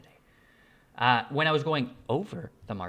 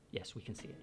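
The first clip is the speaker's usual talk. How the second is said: soft whispered aside; whispering; 7 semitones lower, 18 dB quieter, faster than usual. Pretend. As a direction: whisper the answer for the viewers. Answering for chat in aside.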